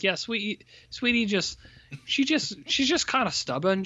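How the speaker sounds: high-pitched, mimicking excuse-makers; mock excusing. The film's people excusing Sweetie, mock indulgent. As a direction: make excuses for her in a put-on high voice.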